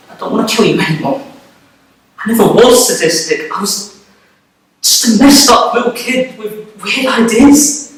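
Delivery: mild acted plea, pitch climbing by the end; pleading. Jack backs out, pleading.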